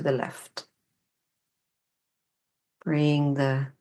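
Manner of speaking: unhurried guidance with long pauses between phrases; guided meditation. Real, not acted. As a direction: guide the body gently, leaving room to feel each step. Leads a standing meditation.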